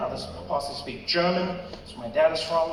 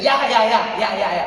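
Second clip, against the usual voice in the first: Rolf; 4 semitones higher, 7 dB louder than usual. Retold or imitated. Rolf's eager reply.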